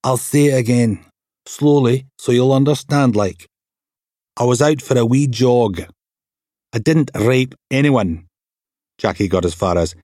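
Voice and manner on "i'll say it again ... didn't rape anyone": slightly higher, defiant denial; a hint of a defensive Aberdonian suspect; lightly voiced suspect. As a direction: push back at the cops, mildly. Suspect denying charges to police.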